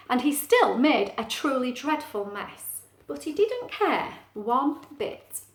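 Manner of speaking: emphatic, animated picture-book reading; lively storytime narrator; story narration. Acted. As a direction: share the surprise with young listeners. Reads story aloud.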